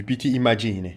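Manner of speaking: careful Italian pronunciation; a light Italian lilt; Italian accent. Pretend. Vlogger names who the gift is from, light Italian accent. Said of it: "J'essaye de parler italien".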